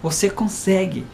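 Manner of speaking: soft, slowing nudge to try; quiet fatherly encouragement; gentle coaxing. Retold or imitated. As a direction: coax a reluctant child. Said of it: "Eu falo bem assim".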